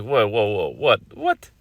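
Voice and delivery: retold gasp of shock, voice jumping up; shocked disbelief. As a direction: play her caught off guard, mock alarm. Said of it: "And Kelly's like".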